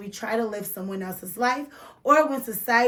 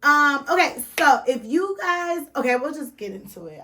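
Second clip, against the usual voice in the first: tipsy, rushing the start; tipsy giggly restart; 3 semitones higher, 3 dB louder than usual. Real, not acted. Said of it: "I'm a little tipsy".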